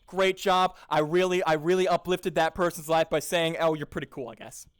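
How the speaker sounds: hollow back-patting, trailing off weakly; mock self-congratulation. Improviser mocking his own empty praise, mock-smug. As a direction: smugly praise yourself for a feeble compliment.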